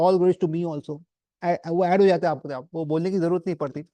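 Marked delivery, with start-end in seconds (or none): 0.0-1.0 slow, drawn-out self-praise in jest; "All glories to me also" said slowly as a playful boast; mock smug inner voice. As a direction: stretch each word, lightly mocking the ego. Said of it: "अंदर से, अ, ऐसा लगता है".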